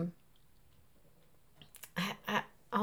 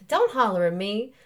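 louder Mississippi stage line; Mississippi accent; 5 dB louder than usual. Acted. Wife answering husband in a play, Mississippi accent. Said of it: "we have to do, um, Mississippi accents".

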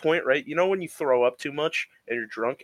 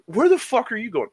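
mock yell; 8 semitones higher, 4 dB louder than usual. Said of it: "And they're like".

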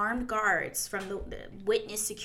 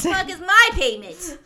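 shouted high, indignant demand; loud mock outrage; 9 semitones higher, 12 dB louder than usual. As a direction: yell it like you were cheated. Joking outrage over payment.

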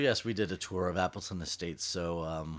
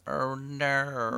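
high, loud mock Australian "Oh no"; Australian accent; 7 semitones higher, 5 dB louder than usual. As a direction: say "Oh no" like an Aussie. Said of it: "voice memo of them going".

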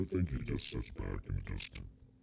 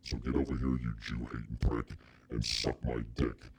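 louder, scornful devil talking down to Hitler; the devil ranting; 3 semitones higher, 4 dB louder than usual. Pretend. Devil on vacation berates Hitler, a loud scornful rant. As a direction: boss him around like a bored devil. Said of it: "I'd be like".

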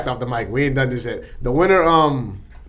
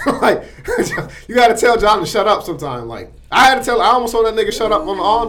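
high, loud, laughing through the words; giggling while mocking John's hair; laughing roast; 7 semitones higher, 5 dB louder than usual. Real, not acted. Teasing his coworker about John, laughing high.

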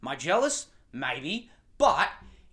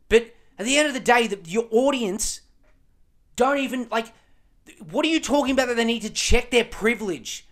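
heated rant; 5 semitones higher than usual. Real, not acted. Ranting at the journalist.

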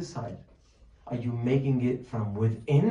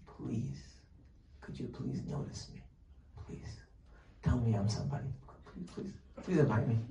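soft, breathy begging for notice; whispered plea, almost pitiful; mock pleading; 7 dB quieter than usual. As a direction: beg quietly like someone starved of attention. Acting out begging for attention.

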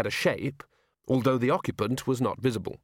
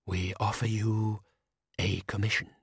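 monotone ghost. A narrator's reading. The spectre speaking.

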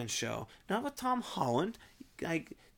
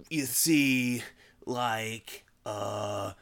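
low, drawn-out hesitations with long gaps; exaggerated slow, droning "uh"; constant pausing; 10 semitones lower, much slower than usual. Shown as a demonstration. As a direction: stall between every filler word. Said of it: "constantly pause and say".

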